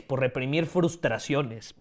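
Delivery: slow, strained, almost choking. Real, not acted. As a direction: push through a choke. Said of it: "Perdón, casi me ahogo". (casi ahogándose, forzando la voz)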